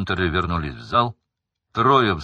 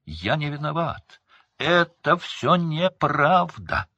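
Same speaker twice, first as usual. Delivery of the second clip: much higher, slow cry; desperate protest; 9 semitones higher, 3 dB louder, slower than usual. A narrator's reading. Son protesting to his father while dragged off. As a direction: cry out in despair.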